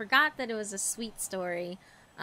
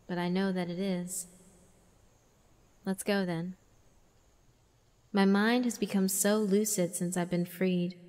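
lightly voiced demon girl; 4 semitones lower than usual. Reading demon girl's lines.

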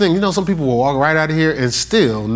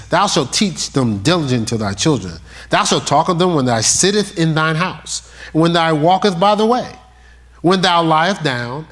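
scripture reading. Acted. Reads scripture aloud.

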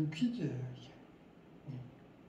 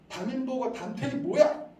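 judging mother; 5 semitones higher, 4 dB louder than usual. Retold or imitated. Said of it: "어머니께서 판단하는 말 하시죠".

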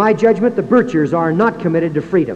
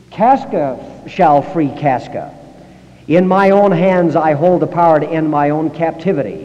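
quoting Brutus; 4 dB louder than usual. Retold or imitated. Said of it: "as Shakespeare put into the mouth of".

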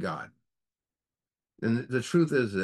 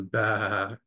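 long drawn-out bah; imitated sheep bleat. The sheep lion answers the old lion, imitated bleat. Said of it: "the sheep lion goes".

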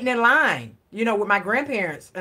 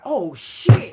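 mock panicked gasp, louder; caught in panic; 6 dB louder than usual. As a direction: blurt it like a caught kid. Caught by the boy's mama.

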